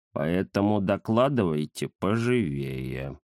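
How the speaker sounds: низко и медленно, нехотя; важно поторопить; ленивый кот Захар. Acted. Кот торопит гостей. (Захар нехотя торопит гостей)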